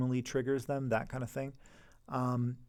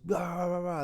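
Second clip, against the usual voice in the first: mock yelling; 5 semitones higher than usual. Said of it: "they might just start yell".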